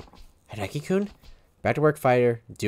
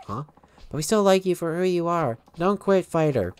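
put-on higher, lightly childlike pleading; voiced kids; 4 semitones higher than usual. Kids plead with Fighter not to quit, high voices. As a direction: kids begging him to stay.

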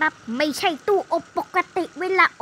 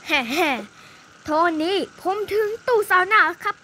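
sneaky giggle; much slower than usual. Pretend. Sneaky arrival at sauna.

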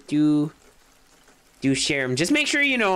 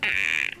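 koala noise; 12 semitones lower than usual. Retold or imitated. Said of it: "it was like".

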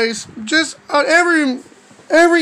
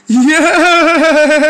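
gleeful yes; 4 dB louder than usual. Acted. Acted delight at doing nice stuff.

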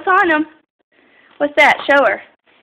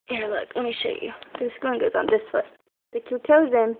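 soft coaxing; 4 semitones lower, 10 dB quieter than usual. Real, not acted. Helping toddler put shoes on.

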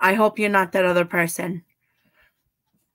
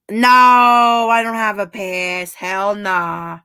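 emphatic refusal; much slower than usual. Real, not acted. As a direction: shout the refusal out slowly.

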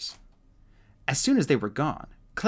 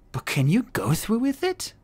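Webbs voice; 11 semitones higher, 3 dB louder than usual. A narrator's reading. Webbs worried.

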